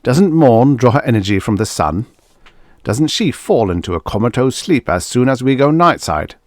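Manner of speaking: loud, angry tirade; husband screaming at his wife; screamed. Acted. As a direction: rage right into her face. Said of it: "fairly screamed into her face".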